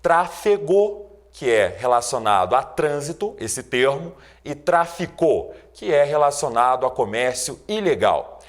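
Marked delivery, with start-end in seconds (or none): 0.0-1.1 "Trafegou" said slowly, syllable by syllable; slow teaching word. Shown as a demonstration. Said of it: "posso citar as seguintes palavras". 4.5-5.6 "traficou" said slowly, each syllable clear; slow teaching word. Shown as a demonstration. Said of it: "posso citar as seguintes palavras".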